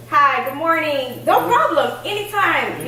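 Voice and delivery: high, bright-pitched polite phone greeting; customer service voice. Retold or imitated. Worker greeting customers on the job in a chipper customer service voice. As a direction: lift the pitch into a sweet work voice. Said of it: "I have to, you know".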